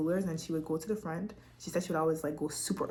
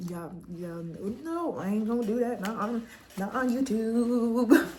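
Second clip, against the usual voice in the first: fighting tears; 5 semitones higher, 5 dB louder than usual. Real, not acted. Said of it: "getting emotional".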